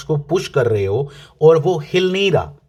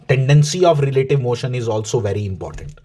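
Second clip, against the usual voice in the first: very slow, word by word; slow emphasis; 3 semitones lower, much slower than usual. Shown as a demonstration. Teacher slowly stresses the key term for students. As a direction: spell out Tendency of relative motion slowly so it sticks. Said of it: "please mind it".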